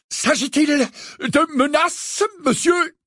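high, loud, slow challenge; loud indignant. A narrator's reading. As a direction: bark the question for passersby. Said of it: "dit-il si fort".

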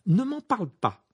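high-pitched mild lament; dismayed lament. Acted. George to Ron over lost savings, dismayed. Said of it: "se désola George".

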